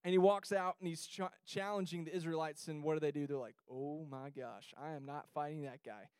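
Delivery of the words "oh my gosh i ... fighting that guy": scared soldiers. Retold or imitated. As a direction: shrink back from the giant, half-hearted. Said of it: "they were greatly afraid".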